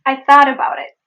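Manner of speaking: "I thought about it" connected, both Ts tapped; linked flap T. Shown as a demonstration. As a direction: run the phrase together. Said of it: "It is thought about".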